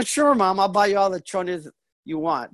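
lightly acted eagerness to oblige; agreeable son. Son agrees to buy for his mom, agreeable. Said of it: "I go".

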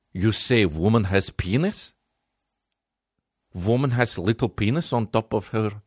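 lightly put-on Russian accent, puzzled; a baffled Russian guy checks. The Russian guy misunderstands the Italian, lightly Russian accent. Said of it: "the Russian guy's like".

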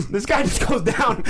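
slow, laughing repeat of the punchline; laughing emphasis. Real, not acted. Retelling the knockout to a friend, laughing. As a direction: relish it through laughter.

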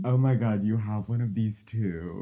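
loud and delighted; excited. Real, not acted. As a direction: squeal with recognition. Excited over matching dongle.

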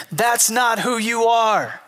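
slow, high mock yell; retold yell. Brother yelling at a friend in the huddle, slow and high. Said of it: "yelled at him".

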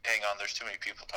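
phone speaker. Real, not acted. Caller on speakerphone.

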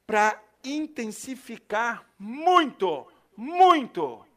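preacher hammering "muito, muito"; stretched emphasis. Real, not acted. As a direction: lean hard on each "muito". Preacher stressing intensity.

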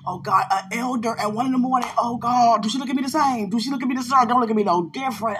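acting out a worried prayer; playful worry. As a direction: fret aloud in a comic mini panic. Replaying worry after late-night text.

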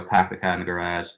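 light Boston accent sample; quick demo of a Boston accent. Shown as a demonstration. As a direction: say it with a touch of Boston. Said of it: "differing degrees of New York and Boston".

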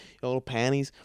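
sleazy little whisper; whispered aside. Real, not acted. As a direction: whisper it, leering. Leering aside about her.

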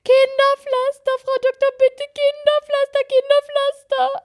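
put-on high, slow, pleading little-boy voice; tearful child pleading. Mother imitating her son begging the doctor for a plaster, high and tearful. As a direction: beg through tears like a toddler. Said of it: "hat er gerufen, unter Tränen".

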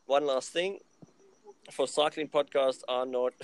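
lightly put-on French accent. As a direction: read it with a hint of French. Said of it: "putting on a French accent was gold".

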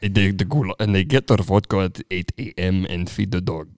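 mock Russian accent; joking Russian talk. Shown as a demonstration. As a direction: keep up the comic Russian voice. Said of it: "then the Russians".

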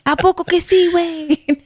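high, laughing disbelief; laughing gossip reaction. Retold or imitated. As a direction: squeal it through laughter. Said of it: "somebody's just told him some good, juicy gossip".

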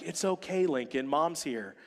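calm the little one down softly; soothing mother. Retold or imitated. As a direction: mom soothing her crying four-year-old, tender and soft. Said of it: "And Julie's like".

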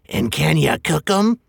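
slow, hungry troll voice; a dim troll thinking of dinner; troll Tom. Acted. Tom asking if the hobbit can be cooked, slow hungry troll voice. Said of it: "said Tom".

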